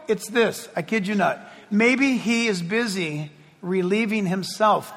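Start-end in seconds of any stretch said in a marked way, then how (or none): 1.7-5.0 dry taunt. Acted. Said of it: "the prophet said".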